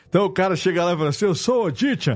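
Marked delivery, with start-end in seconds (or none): 1.2-2.1 forced, laid-on put-on old man voice. Retelling how a guy introduces himself, in a put-on old man voice. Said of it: "a voz de idoso é quando você chega".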